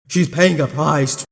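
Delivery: low attempt at a villain voice; second try at a menacing villain; trying Zagred's voice. Second attempt at Zagred for viewers, low menacing voice. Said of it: "let me try to do his voice".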